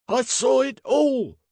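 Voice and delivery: very high, loud, drawn-out cry; shrill. A narrator's reading. Servant repeats his accusation to constables, shrilly. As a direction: insist shrilly as an eyewitness. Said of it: "repeated the servant from number forty-four shrilly".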